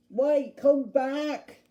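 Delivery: loud, high, drawn-out call. Acted. Duck calling Bulgy back as he drives off, loud shout. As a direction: shout after someone leaving, stretching the words.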